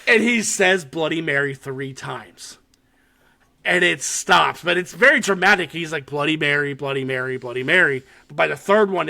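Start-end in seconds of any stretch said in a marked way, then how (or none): 6.1-8.0 out of breath. Retold or imitated. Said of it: "he's, like, catching his wind".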